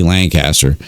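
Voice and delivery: Lancaster with a clear "caster", LAN-CAST-er; Lancaster said as spelt, LAN-caster; standard pronunciation. Shown as a demonstration. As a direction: show the full "cast" in Lancaster. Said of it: "I know how to say".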